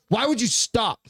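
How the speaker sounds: imitated indignant scolding. Man mimics his partner scolding him for stopping, mock indignation. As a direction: mimic a partner demanding an explanation.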